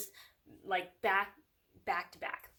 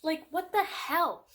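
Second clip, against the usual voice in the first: loud, high, drawn-out disbelief; baffled outburst; 8 semitones higher, 7 dB louder, slower than usual. Retold or imitated. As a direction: stretch it out in loud, incredulous protest. Exasperated reaction to the star stick.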